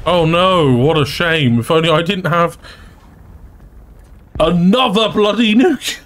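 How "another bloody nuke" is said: higher voice breaking into laughter; gleeful. Real, not acted. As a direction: crow it while starting to laugh. Gleeful at getting another nuke.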